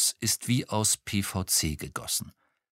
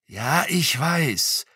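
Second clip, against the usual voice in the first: hissed; 7 semitones higher, much slower than usual. A narrator's reading. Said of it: "zischte er".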